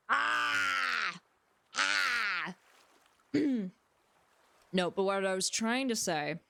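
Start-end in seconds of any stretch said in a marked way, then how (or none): 0.1-2.6 sustained, raised "ah" in frustration; voice dysphoria cry. Real, not acted. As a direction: let out drawn-out frustrated yells. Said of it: "voice dysphoria".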